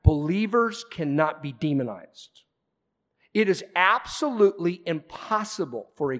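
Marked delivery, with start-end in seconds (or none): 0.0-2.4 firm, every word set down; emphatic. Real, not acted. Pastor tells congregation emphatically, firm emphatic statement. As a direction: state it flat out, no doubt.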